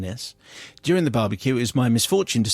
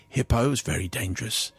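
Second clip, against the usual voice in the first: guide warming to his subject; 2 semitones lower, 4 dB quieter than usual. Acted. Guide lecturing a nervous tourist, lightly voiced relish. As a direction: savour the danger as a guide, understated. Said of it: "warming to his subject".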